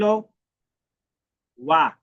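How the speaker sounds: teacher stretching ওয়া for the class; drawn-out syllable. Shown as a demonstration. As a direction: hold out ওয়া slowly as a pronunciation model. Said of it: "তারপরে এটা কিভাবে ছিল?".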